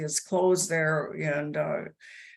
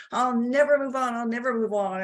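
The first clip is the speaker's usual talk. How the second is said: furious yell; 6 semitones higher than usual. Retold or imitated. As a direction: hurl it back at him in fury, high and raised. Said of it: "I was just furious".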